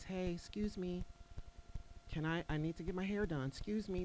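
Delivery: lightly voiced church-lady niceness; mock-sweet and humble request to the Red Cross; nice Christian voice. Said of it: "In my nice Christian voice".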